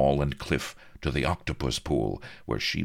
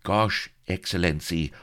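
higher, gushing fawning babble; babbling greaseball; 7 semitones higher, 5 dB louder than usual. A narrator's reading. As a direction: grovel and gush at the boss. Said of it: "babbled the greaseball".

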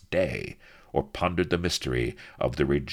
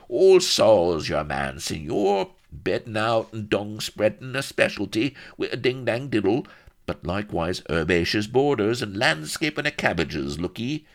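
higher, obsequious gardener's patter; eager rustic servant; 7 semitones higher, 5 dB louder than usual. Acted. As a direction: advertise your skills like a humble retainer. Solomon Shafto offers gardening services.

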